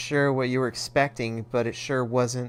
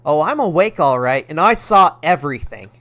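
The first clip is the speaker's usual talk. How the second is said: louder stern telling-off; scolding mom; 5 dB louder than usual. Acted. Mother scolding her son, louder and stern. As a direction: tear into him like a mother.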